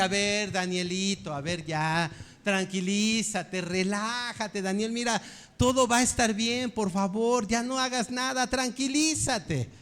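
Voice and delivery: acted patient dad; patient father. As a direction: coax with strained patience, stretching the calming words. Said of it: "con esa paciencia con la que usted le está hablando".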